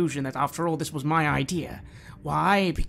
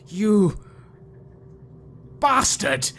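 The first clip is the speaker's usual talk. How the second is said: much higher and louder furious shout; furious outburst; 6 semitones higher, 7 dB louder, much slower than usual. Acted. Doctor White screams at the creature, enraged. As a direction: spit the insult at the monster in rage.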